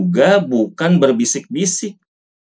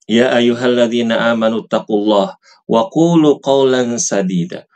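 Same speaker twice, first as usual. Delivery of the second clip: measured chanted Arabic verse; Quran recitation. Shown as a demonstration.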